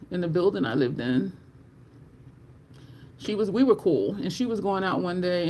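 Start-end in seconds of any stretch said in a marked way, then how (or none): none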